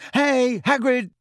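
high slow call across a hall. A narrator's reading. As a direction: hail a friend from afar. Ron calling out to Hagrid.

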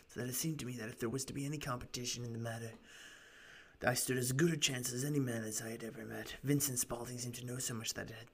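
lightly rasped storytelling client; raspy voice. Acted. Client telling gentlemen his story, lightly raspy voice. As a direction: recount it with a hint of rasp. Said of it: "doing this raspy voice for him".

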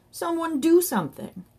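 high, desperate call for help; high-pitched urgent bawl; bawled plea. A narrator's reading. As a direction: plead loudly with bystanders. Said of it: "he bawled at the top of his voice".

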